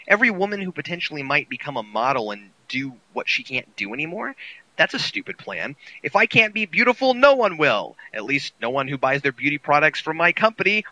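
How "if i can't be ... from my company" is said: hammy gloating villain, high and loud; evil villain. Acted. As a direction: gloat like a cartoon supervillain. Mocking the villain's plan.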